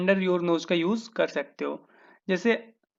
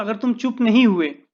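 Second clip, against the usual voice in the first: stern warning; 3 semitones higher, 4 dB louder than usual. Shown as a demonstration. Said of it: "मैं अगर बोलता हूँ".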